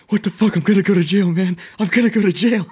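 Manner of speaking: loud, high-pitched retold panic; freaking out. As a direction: act out panicking about jail, voice way up. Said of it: "like, freaking out".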